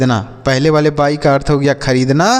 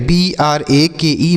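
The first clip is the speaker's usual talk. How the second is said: slow spelling out; slower than usual. Shown as a demonstration. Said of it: "क्या पढ़ेंगे?".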